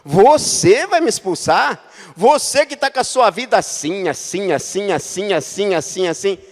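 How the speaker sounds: mild mock of a sinister demon. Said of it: "falou aquela voz tenebrosa mesmo". (imitação leve de voz tenebrosa)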